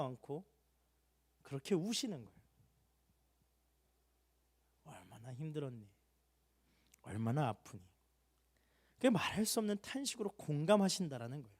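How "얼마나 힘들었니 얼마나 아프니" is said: soft, much lower, gentle consoling; softer and lower, as God consoling the hurting; tender comfort. Acted. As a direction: hold a crying child with your voice. Spirit comforting the weeping believer.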